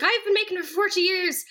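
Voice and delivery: high, quick Irish mammy voice; affectionate high-pitched impression of mother; imitated mother. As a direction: mimic your mum rattling off a recipe. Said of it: "but then she's like".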